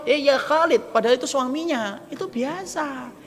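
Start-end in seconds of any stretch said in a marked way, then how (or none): 0.0-0.9 raised, higher call to a husband; mock wife calling out; calling out by name. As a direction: call him by his name across the house.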